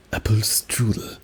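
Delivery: "Apple strudel" with strong first syllables; "Apple strudel" with firm word-initial stress. Shown as a demonstration. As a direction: punch "Ap" and "stru" in "Apple strudel". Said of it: "It's, like, stronger".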